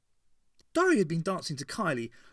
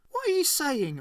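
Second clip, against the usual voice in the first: higher, louder question over the music; raised voice above the music; more loudly; 14 semitones higher, 5 dB louder than usual. Acted. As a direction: call out over the disco noise. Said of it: "asked Tricia more loudly".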